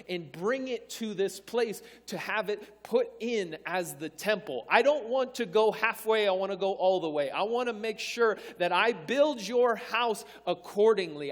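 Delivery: emphatic, driving sermon delivery; speaking out a king's resolve to the congregation; impassioned preaching. Acted. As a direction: preach it with rising conviction. Preaches as Solomon, building temple.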